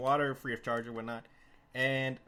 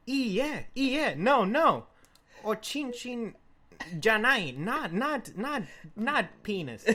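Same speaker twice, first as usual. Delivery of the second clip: higher, flustered pleading to a crowd; frantic correction; 5 semitones higher, slower than usual. Retold or imitated. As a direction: fix the misunderstanding fast. Narrator correcting Japanese crowd.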